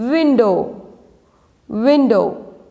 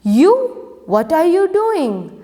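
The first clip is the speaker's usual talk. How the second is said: mango shouting; 7 semitones higher than usual. Acted. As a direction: shout at the worm to get out. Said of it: "she shouted".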